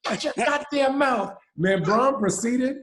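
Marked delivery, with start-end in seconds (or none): 0.0-1.4 high shouted scolding, half-playful; mock angry coach. Assistant coach Longo scolding the taunting player, a high shout. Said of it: "Longo, goes".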